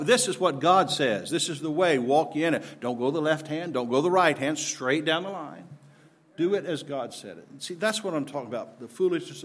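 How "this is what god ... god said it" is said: firm, emphatic preaching; zealous proclamation. Shown as a demonstration. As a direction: lay down the rule with conviction. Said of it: "proclaiming the message with zeal".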